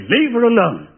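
a touch of a prim English journalist; lightly arch, prim request; mock prim plea. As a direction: say it like a polite Englishman. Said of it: "pull out my press card and say".

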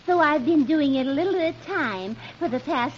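quietly explain, a hint of a comic wife; Blondie. Blondie revealing secret cleaning to husband, low soft voice. Blondie's part read by companion.

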